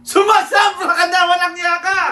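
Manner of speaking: hammed-up high, loud supportive yell; playful, very loud mock support. Shown as a demonstration. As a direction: shout it high like overdone backing.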